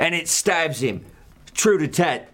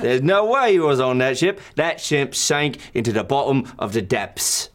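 indignant; 6 semitones higher, 3 dB louder than usual. Acted. Arguing in character.

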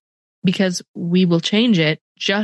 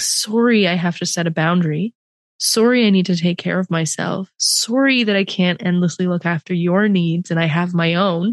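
shrinking apology. Retold or imitated. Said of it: "to speak like that, to shrink".

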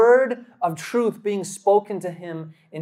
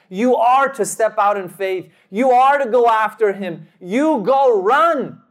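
urgent command; 2 semitones higher, 4 dB louder than usual. Retold or imitated. God orders Philip after his friend, acted as a building command.

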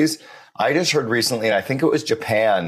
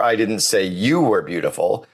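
you lifted and stressed. Shown as a demonstration. Host demonstrating stress on you. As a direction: land on you. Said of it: "put the emphasis on each of the six words".

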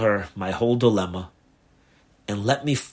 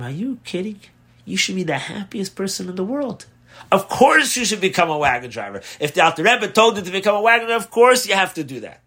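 excited encouragement; 8 semitones higher than usual. Retold or imitated. Wife eagerly urges husband.

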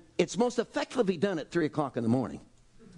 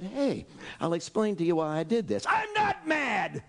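mock angry Jesus; 2 semitones higher than usual. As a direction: play Jesus insisting he isn't angry while clearly shouting. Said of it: "stood up and said".

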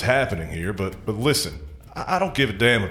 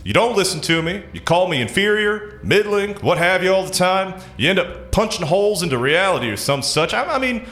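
high, fed-up complaint; vent, fully at the end of your rope; exasperated outburst; 7 semitones higher than usual. Acted.

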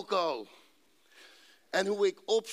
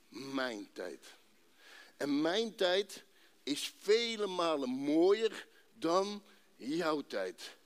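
slow, solemn voice of God; a measured, unhurried God answering the speaker; God speaking; slower than usual. Acted. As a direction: speak slowly as God with calm authority. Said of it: "En God zegt".

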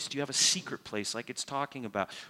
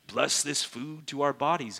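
mock pious prayer. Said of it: "phrases that sound spiritual".

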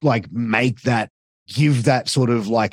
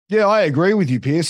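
naive rookie voice; 6 semitones higher than usual. Retold or imitated. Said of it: "on the headset goes".

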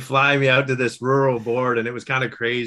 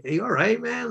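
higher, startled check on a guy at the back; half-playful retold call to the back of the room; concerned call-out; 10 semitones higher than usual. Calling to roaring teacher at back.

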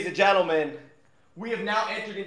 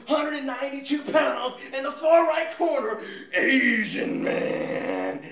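grand entrance announcement; 2 semitones higher than usual. Acted. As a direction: ring announcer hyping a fighter. Introducing contestant like fight.

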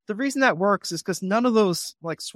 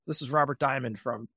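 stiff formal opener; 3 semitones lower, 6 dB quieter than usual. Shown as a demonstration. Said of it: "It's not a formal thing".

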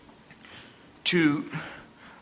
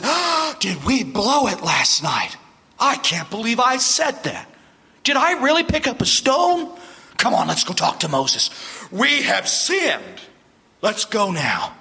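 regretful crowd; 4 semitones higher than usual. Retold or imitated. People voiced regretting their rebellion.

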